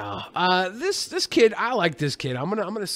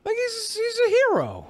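mock heroic praise; 14 semitones higher than usual. Mock grand praise of kid.

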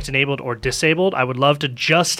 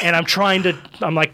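ordinary delivery

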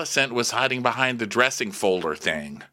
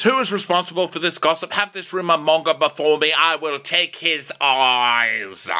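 outraged king; 4 semitones higher than usual. Acted. King demanding the gossip's source, outraged.

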